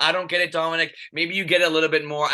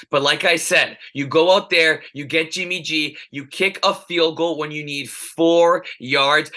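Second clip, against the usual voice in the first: heated emphasis. Real, not acted. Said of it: "I'm adding a little bit of juice to this".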